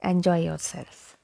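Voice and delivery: "enjoy yourself" with open E starting "enjoy"; mispronounced "enjoy". Shown as a demonstration. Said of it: "I've seen people say".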